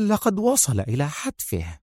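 quietly relishing his doom; grim murmur. Acted. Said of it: "وغمغمت". (غمغمة متوعدة)

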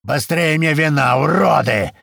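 put-on slow, loud, high drunken roar; yelling. A narrator's reading. Drunk master yelling at slaves for wine, slow loud roar. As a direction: bellow the insult at the slaves. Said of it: "снова орёт".

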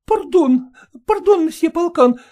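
high, fluttering, apologetic lady dog; flustered lady dog. Acted. Ragulya apologising to Polkan over the bone, high flustered lady voice. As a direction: catch yourself and apologise prettily. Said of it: "спохватилась Рагуля".

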